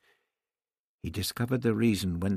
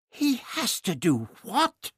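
high, shocked outburst; a sudden appalled cry of disbelief; a woman's voice leaping up in shock; exploding in disbelief; 13 semitones higher than usual. Acted. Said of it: "she exploded".

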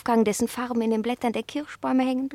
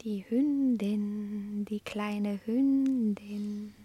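teasing taunt; 3 dB louder, slower than usual. Acted. Cat taunts dog with temptations.

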